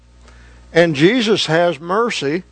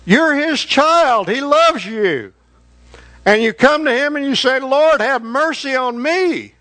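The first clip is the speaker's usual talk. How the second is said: impassioned pleading; 5 semitones higher than usual. Acted. Impassioned sermon climax.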